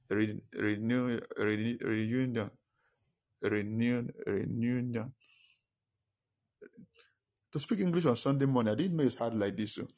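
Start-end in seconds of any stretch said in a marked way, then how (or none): 0.1-5.1 slow word search. Real, not acted. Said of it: "how do they call it again".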